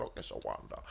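very low, quiet deadpan; sarcastic. Retold or imitated. Teller noting the cashier's name, deadpan. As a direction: drop low and flat on the name. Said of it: "I said".

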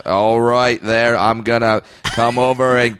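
John Wayne drawl. Acted. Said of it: "John Wayne famously did".

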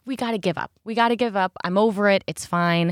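hammed-up giving up; mock dramatic. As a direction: sigh it out like a tragedy. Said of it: "That was very dramatic".

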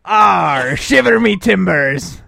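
slow relaxed pirate line; laid-back pirate. Pretend. Host holds a sword and gives his pirate line. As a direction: ease it out sword in hand. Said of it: "I'm like holding up".

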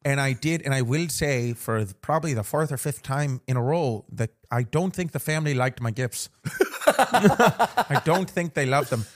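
playful Irish brogue; put-on Irish accent. Host telling co-host about Christmas, mock Irish accent. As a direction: chat on in a mock Irish lilt.

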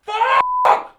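high scream of pepper pain. Acted. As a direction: yell out in burning pain.

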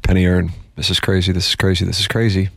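normal talking voice

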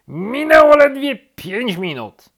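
high, loud protest; exasperated shout. A narrator's reading. Rabbit corrects sleepy turtle, shouting exasperated. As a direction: shout it at a dawdler. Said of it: "krzyknął królik".

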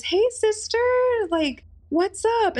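high, put-on greeting from a creepy stranger. The stalker greets her in front of the guys, high fake-friendly voice. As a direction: play the fake-friendly stalker, pitched well up.

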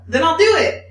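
real laugh through the words. Real, not acted. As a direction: crack up while declaring it. Boasting about calling waitress.

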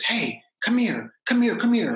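calling him over, imitated and eager; beckoning call. Retelling how Sondheim called him over, high beckoning call.

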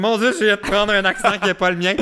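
high, mock-horrified realisation; retold shock. Recalling an accent slip to the co-host, high mock shock. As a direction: exclaim it high, aghast at yourself in jest. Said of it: "je suis comme".

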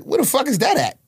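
high-pitched incredulous question; retold bafflement. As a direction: voice leaping up in mock disbelief. Retells own ignorance of Indiana.

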